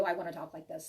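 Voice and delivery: calm, unhurried reading tone. Shown as a demonstration. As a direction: ease down into a measured reading voice. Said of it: "When I'm reading for you".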